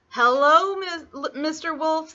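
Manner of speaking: put-on high-pitched child's greeting; polite little girl. Little Red greeting Mister Wolf, high and polite. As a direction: greet him in a small girl's high voice.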